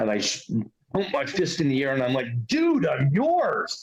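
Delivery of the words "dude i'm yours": mock shout, very high, at the top of lungs. Retelling shouting to the sky at hot springs: retelling a shout. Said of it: "I shouted at the top of my lungs".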